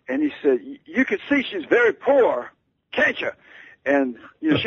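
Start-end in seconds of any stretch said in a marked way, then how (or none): 0.6-3.3 slow, high, pointed question; lightly voiced star pressing his point; a hint of a famous singer, high and slow. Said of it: "shouting so loudly".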